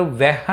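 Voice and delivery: వెహ్ said weh, with e instead of a; the Hindi e in వెహ్, not wah; వెహ్ with the e sound; Hindi pronunciation. Shown as a demonstration. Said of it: "Hindi people దీన్ని ఎలా పలుకుతారు".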